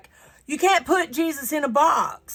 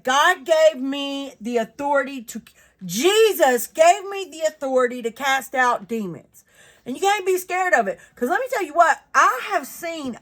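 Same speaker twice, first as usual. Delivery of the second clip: fired-up testimony, raised pitch; emphatic declaration; 3 semitones higher, 4 dB louder than usual. Real, not acted. Speaker urging listeners to have faith, emphatically. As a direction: declare it with firm, punchy conviction. Declaring authority over demons with conviction.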